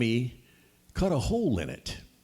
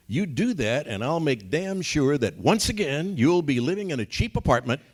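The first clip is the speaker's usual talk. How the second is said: firm wife; 4 semitones higher than usual. Retold or imitated. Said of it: "She said in no uncertain terms".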